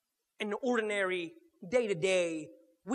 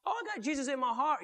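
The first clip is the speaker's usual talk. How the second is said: mock pious Christian; 6 semitones higher, faster than usual.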